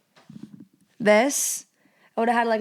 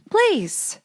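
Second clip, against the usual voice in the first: begging please; 11 semitones higher than usual. Acted. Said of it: "please share it with your wife".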